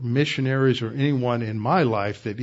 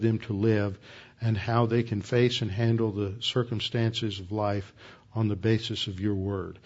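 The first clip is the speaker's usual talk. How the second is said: closing prayer. Acted. Closing prayer after bowing heads.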